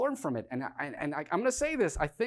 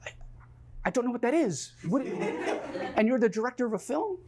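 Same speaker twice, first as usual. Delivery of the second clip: higher, stammering disbelief, laughing at the end; incredulous disbelief; 7 semitones higher than usual. Retold or imitated. Asking Dan about his degree, incredulous and higher. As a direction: act baffled by the answer. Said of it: "And I go".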